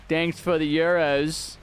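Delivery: clumsy mock European accent; attempted European accent. Shown as a demonstration. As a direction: try a European accent on thanks, slowly. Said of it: "oh, dude, I can't do an accent".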